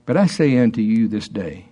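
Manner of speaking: slow prophetic declaration; solemn voice of God. Acted. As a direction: pronounce it like a gentle command. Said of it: "He says".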